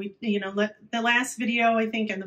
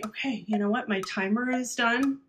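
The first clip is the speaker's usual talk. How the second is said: calmer now. Shown as a demonstration. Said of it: "then say".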